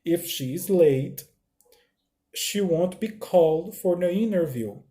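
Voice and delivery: slow, careful English read; teacher reading slowly to students; slow reading aloud. Shown as a demonstration. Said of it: "eu vou ler pra vocês".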